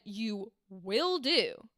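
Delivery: slow, drawn-out villain line; slow menace. Retold or imitated. Coach quoting the actor's slow second read of the villain line. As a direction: stretch You will do out slowly. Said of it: "I really liked the second way you said that".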